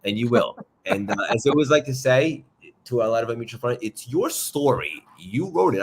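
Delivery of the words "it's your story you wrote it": light, hammed-up New York accent; a hint of a New York accent, drawn out slow; weird New York accent. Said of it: "I just said it with a weird New York accent".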